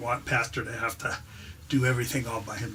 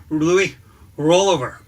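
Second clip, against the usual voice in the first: loud dog command; 3 semitones higher, 9 dB louder than usual. Acted.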